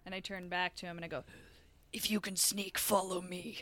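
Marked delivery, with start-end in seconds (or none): 1.9-3.6 odd put-on voice. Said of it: "Why are you doing that with your voice?".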